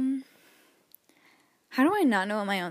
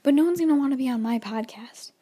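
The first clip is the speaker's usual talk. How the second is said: whispered aside. Real, not acted. Self-pitying aside about podcast.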